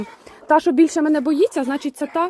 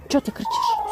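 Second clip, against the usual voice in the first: high squeaky mock scolding. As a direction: squeak it up like a fussing hen. Scolding a screaming hen. (висока писклява інтонація)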